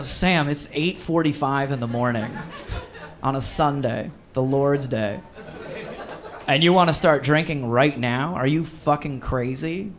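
laughing disbelief at a friend; half-laughing, can't believe him; incredulous laughing. Retold or imitated. Telling his buddy it's too early to drink, laughing disbelief. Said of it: "And I go".

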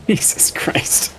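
slow, whispered oath; drawn-out whisper under the breath; whispered exclamation. Real, not acted. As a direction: whisper it slowly in disbelief. Reaction during play.

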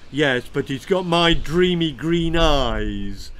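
slow, sloppy wine-sodden splutter; spluttering drunk uncle. Acted. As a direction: splutter it out like a tipsy old uncle. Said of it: "spluttered wine-sodden Uncle Igor".

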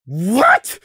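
high startled question. A narrator's reading. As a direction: blurt it out, startled.

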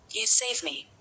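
high-pitched, mildly grateful line. A narrator's reading. Snow White thanks the prince who woke her, mildly grateful. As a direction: lift it up high with a grateful smile. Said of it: "smiling gratefully at the prince".

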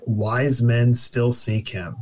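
slow, measured reading of a slogan; slow cliche quote. Retold or imitated. Quoting a childhood Christmas slogan, slow and wry. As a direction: lay out the old saying slowly, a touch mocking. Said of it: "cliche Christmas sayings was".

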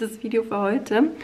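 words round chewing gum. Real, not acted. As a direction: chew gum while you talk. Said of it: "ich habe einen Kaugummi im Mund".

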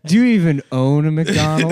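laughing mockery. Mock quote, laughing.

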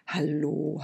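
quiet, gentle greeting; kindly old woman greets a sleepy girl, gently; soft deep old woman's hello. Acted. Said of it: "mit einer tiefen und warmen Stimme".

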